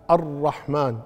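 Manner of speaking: الرحمن as "ar-rahman" with a firm double ra; doubled ra. Shown as a demonstration. Teacher pointing out a shadda, doubled ra in الرحمن. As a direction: roll and hold the "rr" of الرحمن. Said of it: "مشددة".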